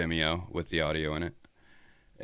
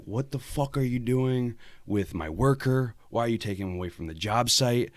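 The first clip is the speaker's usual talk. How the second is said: mock angry boss; 5 semitones higher than usual. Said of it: "He's like".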